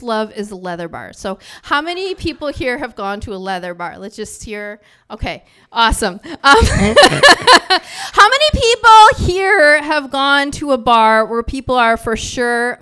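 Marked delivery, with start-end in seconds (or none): 6.2-12.8 laughing through the question, much higher and louder; giggling, loud question to a bar audience. Real, not acted. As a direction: crack up while asking the crowd. Laughing while asking crowd.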